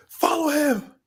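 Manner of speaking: high-pitched frantic girl, imitated; mock-panicked high yell; frantic command. Retold frantic girl jumps in car.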